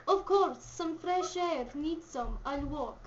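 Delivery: put-on Russian accent. Visitor agreeing to walk, Russian accent. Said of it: "You do a Russian accent".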